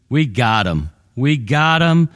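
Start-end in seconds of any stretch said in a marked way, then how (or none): 1.1-2.1 "We got him" pushed higher and louder, triumphant; gloating. Acted. Preacher voicing Paul's captors crowing over him, loud and triumphant. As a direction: crow "We got him" like a victorious jailer.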